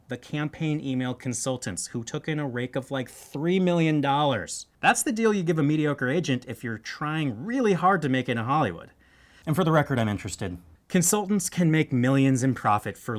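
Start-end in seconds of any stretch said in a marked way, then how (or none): none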